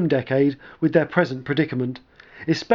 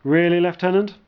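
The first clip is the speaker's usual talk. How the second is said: a little surprised; 3 semitones higher than usual. Acted. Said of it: "with a little surprise in his voice".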